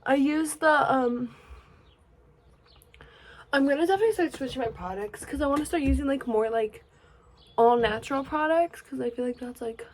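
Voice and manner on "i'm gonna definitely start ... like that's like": breathless, rushing the words; talking while winded; out of breath. Real, not acted. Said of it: "I'm out of breath".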